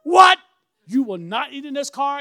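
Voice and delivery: high, loud startled what; shocked outburst. Retold or imitated. Daughter shocked to see her dad in a new car, loud and high. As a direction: react like she can't believe it. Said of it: "She's like".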